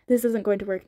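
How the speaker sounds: mildly frustrated protest. Acted. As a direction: push back, exasperated. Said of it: "Nina said in frustration".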